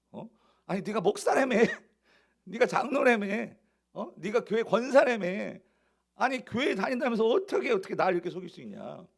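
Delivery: worldly man scolding a churchgoer, indignant; mock rebuke. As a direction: chew them out like an offended outsider. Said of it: "오늘날 우리 버전으로 바꾸면".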